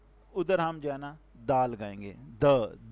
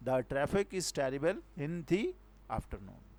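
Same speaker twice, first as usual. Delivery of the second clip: very slow, last word much softer; slow reading; 4 dB quieter, much slower than usual. Shown as a demonstration. Teacher reads the sentence a third time, very slow. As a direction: read it out slowly, fading at the end. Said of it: "इस तरह इधर हमने क्या लगाया".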